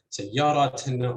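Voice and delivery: سياراتنا stressed on the second syllable. Shown as a demonstration. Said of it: "any of the first three syllables".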